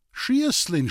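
high call up into the tree. A narrator's reading. Boy calling up to the woman in the tree, shouting. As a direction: shout her name upward. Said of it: "schrie ich hinauf".

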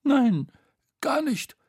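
high, hasty-sounding denial; high-pitched fending off; defensive Bo. A narrator's reading. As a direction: protest in a high little voice. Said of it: "wehrte Bo ab".

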